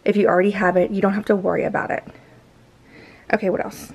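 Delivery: heavy breathing between words; winded, audible panting; gasping for air. Real, not acted. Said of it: "I'm out of breath and all you hear is me, my heavy breathing".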